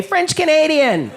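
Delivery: slowed mock Québécois "French Canadian"; French Canadian accent. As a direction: roll it out in a French Canadian lilt. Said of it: "heard a girl say".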